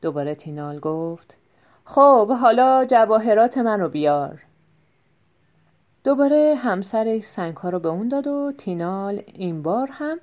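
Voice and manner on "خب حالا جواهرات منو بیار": loud for show. Acted. Staged loud talk for thieves.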